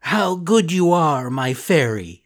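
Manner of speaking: lightly voiced eager puppet boy; a touch of a grateful wooden boy; Pinocchio voice. Pinocchio's voice in story.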